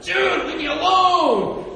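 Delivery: loud, high, drawn-out sibling protest; exasperated yell. Acted. Teased kid to an older brother or sister, exasperated yell. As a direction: wail it at a pestering older sibling.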